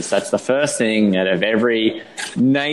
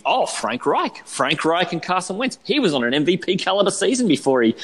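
mocking naysayer; 6 semitones higher than usual. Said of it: "can just kinda do the, the quick line".

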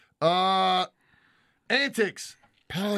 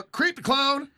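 reading chat aloud; 3 semitones higher, much slower than usual. Acted.

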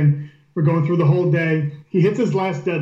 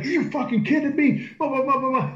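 retold angry outburst; 8 semitones higher, 3 dB quieter than usual. Angry lifter after missed pick.

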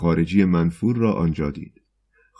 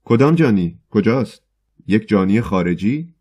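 eager shout; 3 semitones higher, 5 dB louder than usual. Acted. Choirmaster leaps up eagerly shouting about the criminal, loud. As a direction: jump up and shout it, thrilled. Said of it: "مشتاقانه از جا پرید و فریاد زد".

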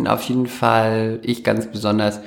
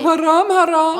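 high, mock-shocked cry; high mock-horrified exclamation; mock outrage; 4 dB louder than usual. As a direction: clutch your pearls in a high voice.

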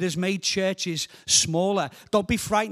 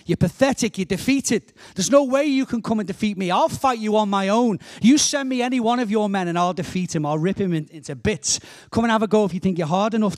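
taunting. Acted. Goliath taunts the cowering army of Israel, taunting. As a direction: throw down a cocky challenge. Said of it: "he's taunting them".

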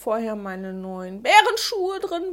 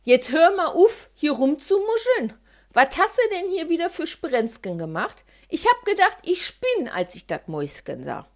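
mother scolding; 3 semitones higher, 3 dB louder than usual. Acted.

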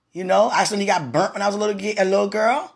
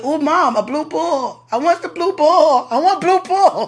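put-on high little-girl whine for the blue ball; childish pleading to mom, pitched way up; kid voice; 11 semitones higher, 5 dB louder, slower than usual. Little girl begging her mom on the bus, high and whiny. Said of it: "And I was like".

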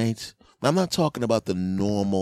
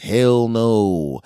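loud, hearty dad; 4 semitones higher, 8 dB louder than usual. Acted. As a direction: bark it like a proud father. Dad answers son.

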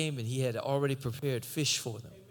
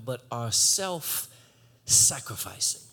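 slow emphasis; 4 semitones lower, much slower than usual. Acted. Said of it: "slow emphasis".

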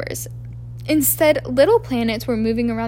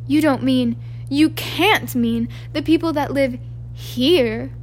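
cried; slower than usual. Acted. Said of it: "cried Professor McGonagall".

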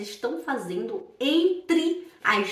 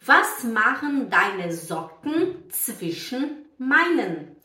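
very slow, word-by-word German model reading; careful, spaced-out teacher pronunciation; example sentence; much slower than usual. Shown as a demonstration. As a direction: read the German slowly and distinctly for learners. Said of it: "Por exemplo".

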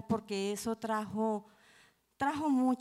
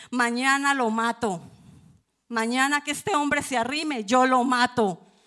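louder, grim resolve; determined vow; 4 semitones higher, 8 dB louder than usual. Retold or imitated. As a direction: swear it through clenched resolve. Niña decide matar al tío. (juramento decidido)

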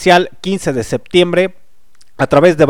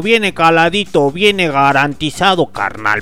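hyped fairground barker. Acted. Street vendor hawking discs.

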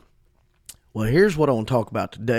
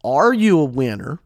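forceful question, louder on ARE; emphatic question; 5 dB louder than usual. Real, not acted. Preacher challenging listeners on his podcast, emphatic. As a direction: punch "are" in "are you a winner". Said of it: "So I say emphatically".

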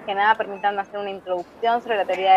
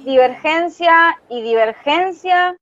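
nervous panic; 4 semitones higher, slower than usual. Real, not acted. Panicking at the talk.

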